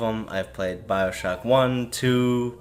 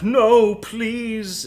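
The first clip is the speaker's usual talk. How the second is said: much higher, hammed-up begging; a squeaky, pretend terrified plea; mock pleading; 13 semitones higher, 5 dB louder than usual. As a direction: plead for your life, overdone. A victim begging for his life.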